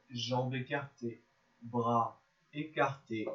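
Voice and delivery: measured yoga nidra guidance with long pauses; unhurried, spaced-out relaxation voice; guided relaxation. Real, not acted. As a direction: guide them gently into rest, phrase by phrase.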